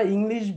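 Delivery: ইংলিশ with a clear "i" at both ends, "ing-lish"; common Banglish pronunciation. Shown as a demonstration. Teacher shows guardians how we say it, common "ing-lish". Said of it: "This is not correct pronunciation".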